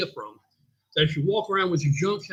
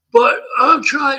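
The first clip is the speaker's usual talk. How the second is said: higher, louder, very slow plea; gym guy's voice; 8 semitones higher, 8 dB louder, much slower than usual. Retold or imitated. Gym owner imitating the guy pleading he's trying. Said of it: "So I'm gonna do it".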